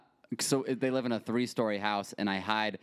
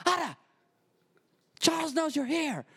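very high-pitched call to a friend; imitating yelling grandma. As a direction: holler it as a little Italian lady. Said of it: "she yells to her friend".

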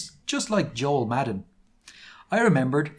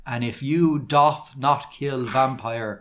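cruel slow threat; slower than usual. Acted. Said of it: "he answered cruelly".

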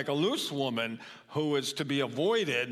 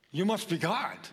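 dog's voice; 4 semitones higher than usual. Retold or imitated. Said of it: "Do we respond like a dog?".

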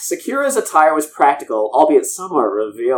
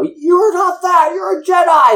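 much higher, slow, hammed-up rallying cry; mock heroic declaration; 3 dB louder, slower than usual. Jedi master telling his lost apprentice who she is, hammed-up hero call. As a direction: proclaim it like a cartoon hero snapping her out of it. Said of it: "Quinlan Voss showed up and told her".

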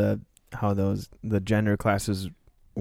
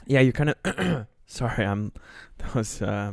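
sniffly, nose running from spicy peppers; talking through a runny nose; 3 dB quieter, slower than usual. Real, not acted. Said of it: "My nose is running and everything still".

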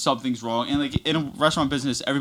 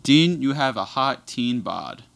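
slow quote; 4 dB louder, slower than usual. Retold or imitated. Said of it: "She said, and I quote".

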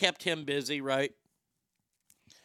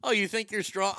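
a higher, louder mock of grandma's taunt; 5 semitones higher, 4 dB louder than usual. Comic retelling his grandma scolding a kid, higher and louder mock taunt. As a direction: tease like a feisty little grandma. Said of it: "I never realized how funny that is".

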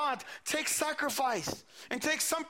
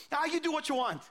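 breezy, higher-pitched mock reply; simple, unbothered reply; 5 semitones higher than usual. Prophets replying to an angry king, lightly unbothered. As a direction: shrug it off in a higher voice. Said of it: "response to the king was very simple".

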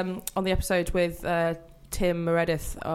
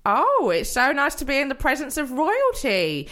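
fawning clerk; 4 semitones higher, 4 dB louder than usual. Acted. Fawning clerk fetches manager.

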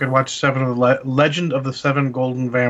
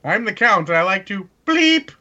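Count impression; 6 semitones higher than usual. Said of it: "The video where they bleep out the count".

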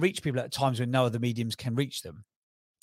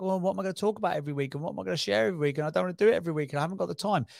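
rattled-off worries in a higher voice; fast, higher-pitched run of objections; mock complaining; 5 semitones higher, much faster than usual. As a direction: quickly imitate people making excuses. Voicing podcast doubters' objections.

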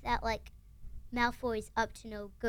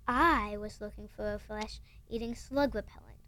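whispered growl. Retold or imitated. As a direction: read it as a hushed growl. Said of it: "growled Hagrid".

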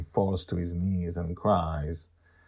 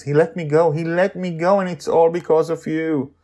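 put-on higher, louder grateful boy; relieved boy; 9 semitones higher, 8 dB louder than usual. Charlie thanking Joy, relieved and grateful. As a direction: give her the credit, relieved.

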